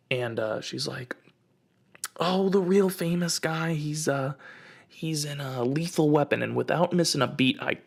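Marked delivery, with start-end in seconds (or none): 2.2-6.4 higher put-on lady voice, hesitant; lightly voiced searching lady; imitated stranger lady. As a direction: reach haltingly for the name as the stranger. Acting out lady searching for name.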